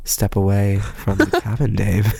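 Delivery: lightly voiced, measured computer voice; a hint of movie-computer monotone; HAL. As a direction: warn like a calm film computer. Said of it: "Two thousand one, Space Odyssey".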